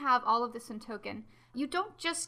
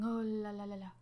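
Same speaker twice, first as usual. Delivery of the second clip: elf voice; 3 semitones lower, 6 dB quieter than usual. Shown as a demonstration. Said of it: "That's how they sound to me".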